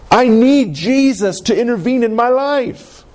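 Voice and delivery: a touch of desperation, pleading for help; desperate cry. Retold or imitated. Preacher voicing the blind man's need, mildly desperate. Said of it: "There's a desperation in his cry".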